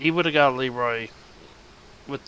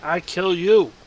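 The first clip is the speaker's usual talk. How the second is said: growling ogre threat, louder at end; 5 semitones higher, 8 dB louder than usual. Acted. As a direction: menace them like a brute ogre. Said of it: "The ogre says".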